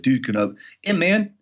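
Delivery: put-on weak Mexican accent, rising high; half-hearted Mexican accent. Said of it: "I can't do a Mexican accent anymore".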